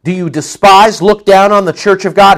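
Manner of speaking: pointed accusing question; no punches pulled. Acted. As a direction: confront them as Paul would. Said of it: "not pulling back any punches at all".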